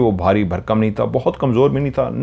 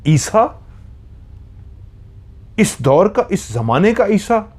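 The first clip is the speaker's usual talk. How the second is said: high, raging disbelief; furious mocking question; furious retort; 9 semitones higher, slower than usual. A narrator's reading. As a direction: spit it out in outrage. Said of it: "वो शदीद गुस्से में बोला".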